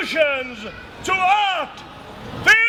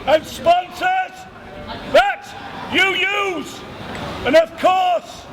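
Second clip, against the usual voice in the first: town crier proclamation. Acted.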